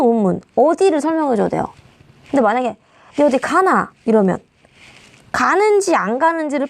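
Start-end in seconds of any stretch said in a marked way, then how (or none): 3.2-3.9 Gyeongsang dialect. Shown as a demonstration. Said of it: "경상도 사투리의 예시".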